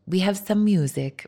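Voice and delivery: a light, badly done Greek accent; half-hearted Greek accent on a quoted line; terrible Greek accent. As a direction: lightly mimic a Greek sound man's accent. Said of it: "my terrible Greek accent".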